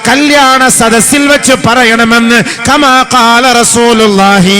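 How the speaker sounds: high, loud and slow, in full sermon chant; fervent preaching. Acted. Preacher exhorting parents at a wedding gathering, loud and high. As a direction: preach it out to the hall, slow and soaring.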